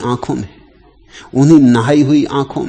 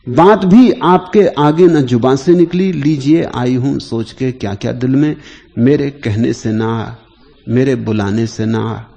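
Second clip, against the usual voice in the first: measured poetic recitation, slowing after the opening line; verse recitation; 4 dB louder than usual. Acted. Teacher quoting a verse on tears to listeners, poetic recitation. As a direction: recite the couplet with a strong start, then ease off.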